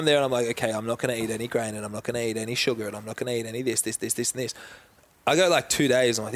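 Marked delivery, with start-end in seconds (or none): 0.5-4.5 quick, low running list; fast, softer imitation of rigid self-talk; mock self-imposed rules. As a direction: rattle off the rules under your voice. Mimics himself listing strict diet rules.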